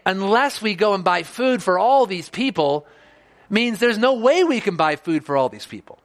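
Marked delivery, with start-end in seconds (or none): 0.1-2.9 resigned objection. Shown as a demonstration. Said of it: "And the way that they say it".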